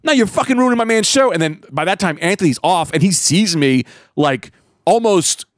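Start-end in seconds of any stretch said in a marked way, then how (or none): 0.0-1.3 high, indignant acted comeback; mock-furious scolding; retold angry retort. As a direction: argue back, re-enacting the quarrel. Retells arguing back with heckler.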